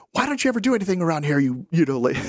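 fast, nagging complaint; hammed-up irritated nag; mock nagging. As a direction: rattle off the reproach quickly. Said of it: "Versus saying".

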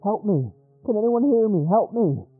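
high, loud desperate plea; urgent, high-pitched distress call. A narrator's reading. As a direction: cry out for rescue over the radio. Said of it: "The voice sounded desperate".

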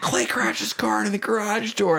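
father calling up to the mother, lightly mocked; dad telling mom. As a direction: relay the news as the dad.

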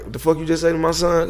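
fast, high-pitched retold outrage; indignant confrontation. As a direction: imitate a mother jumping to her son's defense. Mother confronts man insulting son.

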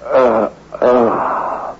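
dazed waking mumble turning alarmed; groggy confusion. Acted. Husband waking late, confused, calling for his wife. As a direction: wake up lost and worried.

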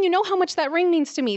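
angry big sister, "know" hit hard and falling; retold yell. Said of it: "And I yelled at him".

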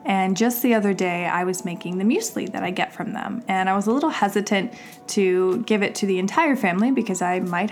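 upbeat sponsor read, brisk and bright. Acted. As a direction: sell it like a podcast host ad. Sponsor read for Public Goods.

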